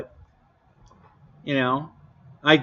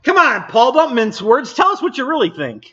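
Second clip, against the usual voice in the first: teasing; 6 semitones higher, 3 dB louder than usual. Real, not acted. Teasing Paul's blunt verdict.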